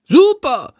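high, excited shout; calling out. A narrator's reading. Chandor calling out in glee, high and loud. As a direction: cheer it out. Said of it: "ruft er".

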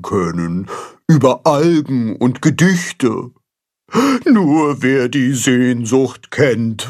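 slow, sorrowful fish voice, sighing; a lonely carp lamenting his longing; melancholy carp. A narrator's reading. Baldrian's long sad lament.

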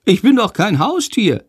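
high, huffy bat voice; grumbling bat. A narrator's reading. Little bat Sándor offended at being called a pet, huffy. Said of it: "meckert Sándor".

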